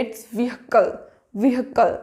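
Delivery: vehicle said with the h sounded, "vee-hi-kal"; correct pronunciation. Shown as a demonstration. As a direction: stress the h in vehicle. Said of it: "इस तरीके से हमें pronounce करना है".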